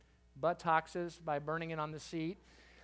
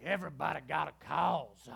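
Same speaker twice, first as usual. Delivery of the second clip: African-American pastor impersonation; 2 semitones lower, 3 dB louder than usual. Retold or imitated. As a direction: imitate a comedian's pastor routine. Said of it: "do this African-American pastor impersonation".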